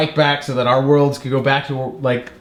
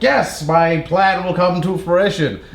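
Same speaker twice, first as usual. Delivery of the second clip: slow, mock-evil scheming voice; gloating villain; 2 semitones higher, slower than usual. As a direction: lightly play a triumphant cartoon villain. Voices villain gloating over her plan.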